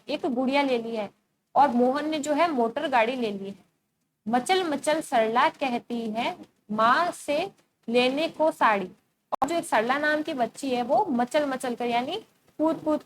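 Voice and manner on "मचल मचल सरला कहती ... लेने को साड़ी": slow, drawn-out verse reading; poem recitation. Acted. Teacher reciting Sarla's verse to the class, slow recitation. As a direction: recite it line by line, slowly.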